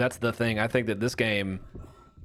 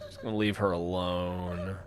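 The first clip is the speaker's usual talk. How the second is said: laughing softly; 4 semitones lower, 6 dB quieter than usual. Real, not acted. Sneaking past an enemy.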